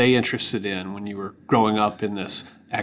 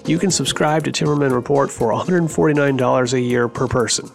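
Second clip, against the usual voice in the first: ad read. Acted. Host reads sponsor ad over music.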